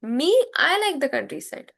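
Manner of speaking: "Me" set apart ahead of "I"; emphasis on ME. Shown as a demonstration. Teacher translating the emphasis example, stressed "Me". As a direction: lean on "Me", then carry on. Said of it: "that is for giving emphasis".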